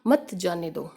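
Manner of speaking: मत जाने दो said low as a separate phrase after the break; मत जाने दो as its own phrase; after the pause. Shown as a demonstration. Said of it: "और फिर बोलते हैं".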